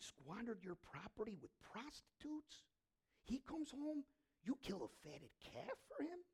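quiet acted anger, climbing into indignant questions; angry son. Older son complaining to his father, quietly angry. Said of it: "He's angry".

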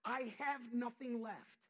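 a drained worker crying out to God, loud and slow; weary prayer. Retold or imitated. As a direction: pray it like someone worn out to the bone. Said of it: "It's okay to say".

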